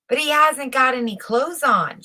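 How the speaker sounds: a mild mock shout from the crowd. A narrator's reading. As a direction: call it out like a whole town at once. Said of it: "shouted the whole town at last".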